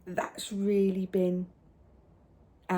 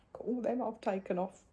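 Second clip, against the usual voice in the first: put-on child voice; 6 dB quieter than usual. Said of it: "He went".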